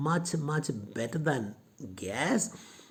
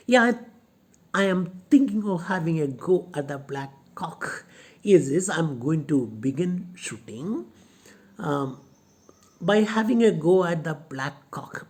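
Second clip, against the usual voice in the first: Lomov eager; 3 semitones higher, 5 dB louder than usual. Retold or imitated. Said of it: "and he says".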